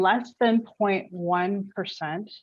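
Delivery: slow, deliberate emphasis. Real, not acted. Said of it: "I have to say it slow".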